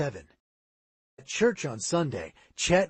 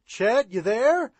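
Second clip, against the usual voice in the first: slow, loud, higher searching call; 8 semitones higher, 8 dB louder, slower than usual. A narrator's reading. Worried boy searching the creek for his friend, calling out. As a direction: drag the call out across the water. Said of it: "Sid called".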